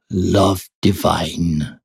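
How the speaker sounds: slow, lilting Welsh accent; a hint of a lilting Welsh accent. Shown as a demonstration. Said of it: "I'd say it in a lovely Welsh accent".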